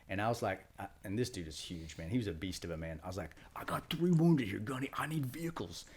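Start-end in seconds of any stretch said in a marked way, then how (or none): 3.5-5.8 retold desperate plea. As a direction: act out pleading urgently with a superior. Retold urgent plea to gunny.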